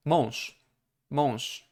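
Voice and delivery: "mąż" ending in a voiceless sh. Shown as a demonstration. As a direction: say "mąż" as monsh. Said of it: "the softer version at the end of the word".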